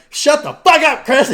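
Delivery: loud, high playful yell; hammed-up shouted telling-off; mock outburst. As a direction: shout it like fed-up teasing. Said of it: "you're like".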